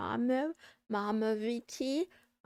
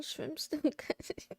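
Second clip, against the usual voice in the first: laughing; 4 semitones higher, 3 dB quieter than usual. Real, not acted. Giggling about the dropped chip.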